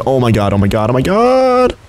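high-pitched excited shriek; shrieking jackpot winner. Real, not acted. Sudden dino attack, excited scream.

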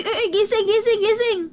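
high, urgent calls to rouse someone; urgent wake-up call. Acted. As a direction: try to wake someone who passed out. Acted rousing of fainted swimmer. (natatarantang panggigising)

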